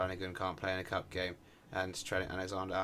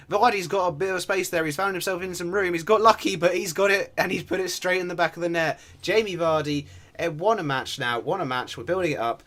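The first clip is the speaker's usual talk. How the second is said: loud, high goal commentary; excited play-by-play; 8 semitones higher, 10 dB louder than usual. Real, not acted. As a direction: call the goal at full volume, voice raised. Commentates a goal being scored.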